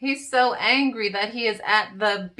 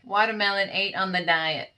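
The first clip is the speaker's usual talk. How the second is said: Meow Zarden impression. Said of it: "That's my best Meow Zarden".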